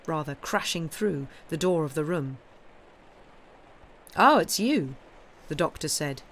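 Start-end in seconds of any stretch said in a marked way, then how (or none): 4.1-4.9 surprised. Acted. Doctor startled at intrusion.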